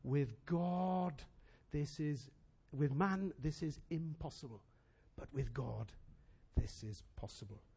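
the same declaration, now hushed; soft Jesus quote. Retold or imitated. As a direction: say it gently to the rich young ruler. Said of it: "Jesus says to him".

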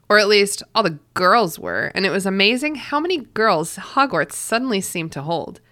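reading a novel aloud; story narration. Acted. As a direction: read it like an audiobook. Reads book passage aloud.

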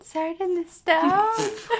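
slow, high alien voice. Pretend. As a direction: drag the title out as an alien. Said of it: "you can do the alien".

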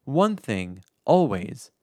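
slow, measured reading with pauses; deliberate, solemn-paced quote reading; quote recitation. Acted. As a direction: recite it slowly, phrase by phrase. Reads out the closing quote.

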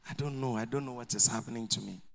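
low, soft, helpless mumble; sheepish excuse. Retold or imitated. Member explaining absence to the leader, sheepish excuse. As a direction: imitate a sorry, lost member.

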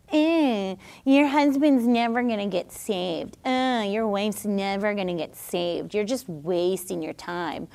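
lightly put-on discouraging sneer; mocking naysayer. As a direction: needle them quietly, voice dropping away. Voicing the mocking enemy's taunts.

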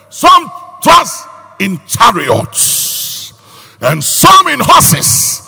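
loud slow scripture proclamation; loud preacher rallying the congregation; preaching. Real, not acted. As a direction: declaim the verse to the crowd.

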